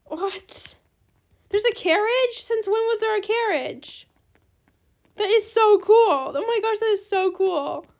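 high, loud astonished gush; amazed surprise. Real, not acted. Player spots a carriage in the game, amazed squeal. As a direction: squeal in disbelief.

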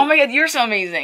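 high, sugary fake gushing; mock sappy couple. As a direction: gush with fake adoration. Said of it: "what people expect us to be like".

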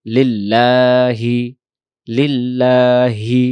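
লিল্লাহি slow and loud, voice opened; full-throated. Shown as a demonstration. Teacher telling students to recite with an open throat. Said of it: "গলা ছেড়ে লিল্লাহি".

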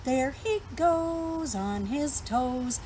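slow, drawn-out rhyme reading; poem recital. Acted. Teacher reciting a fly rhyme to young viewers, slow and sing-song. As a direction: savour each line of the little rhyme.

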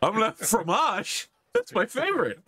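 a hammed-up Monty Python Frenchman; high squeaky mock French, delighted; mock French accent. Joins the mock French joke.

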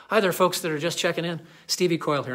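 calling out loud to the far microphone; projecting loudly across the room; shouting. Real, not acted. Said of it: "I'm kinda shouting 'cause I think I have to shout".

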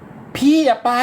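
coaching how to plead; pleading demo. Shown as a demonstration. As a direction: drag it out like a begging girl. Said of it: "พูดสิ".

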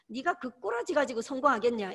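a light Gyeongsang dialect jab. Retold or imitated. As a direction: tease them in a Gyeongsang dialect. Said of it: "경상도 말로 좀 여러분들". (가볍게 경상도 사투리로 한마디)

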